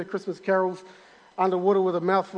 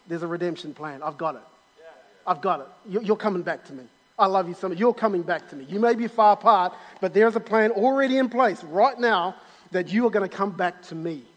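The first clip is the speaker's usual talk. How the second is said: tender God voice; 2 semitones lower than usual. Acted. God voiced reassuring people.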